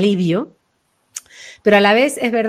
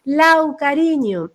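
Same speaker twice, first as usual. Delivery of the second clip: higher-pitched pet-name voice; affectionate calling; 5 semitones higher, much slower than usual. Acted. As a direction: coax a loved one by nickname. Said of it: "igual te llamaban en plan de".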